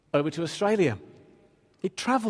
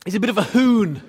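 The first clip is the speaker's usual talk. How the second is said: amused aside; 5 semitones higher, 7 dB louder than usual. Real, not acted. Comic aside about Jehu.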